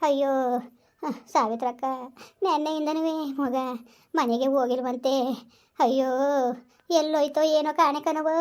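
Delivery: keen for the lost son; wailing lament. Acted. Mother wails to Savitrakka over her missing son, weeping.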